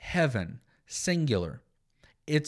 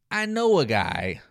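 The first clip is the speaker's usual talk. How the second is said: coy sarcastic aside; 2 semitones lower, 4 dB louder than usual. Retold or imitated. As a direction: drop it casually as if hiding the truth. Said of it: "he is being sarcastic".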